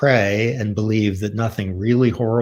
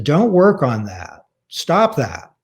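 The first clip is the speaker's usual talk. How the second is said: angry mother's order; 4 semitones higher, 4 dB louder, slower than usual. Retold or imitated. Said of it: "she was very angry".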